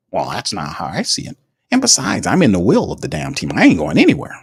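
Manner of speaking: a hint of a self-satisfied boss defending a favour; Mickey Loomis. Mocking the GM over a trade, lightly voiced smug executive. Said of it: "Mickey Loomis".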